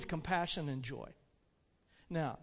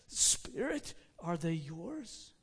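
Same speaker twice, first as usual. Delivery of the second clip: appalled, choked question; 3 dB quieter, slower than usual. Acted. Appalled Scrooge questions the spirit, choked and hesitant. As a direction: ask softly, struggling to get words out. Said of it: "the words choked themselves".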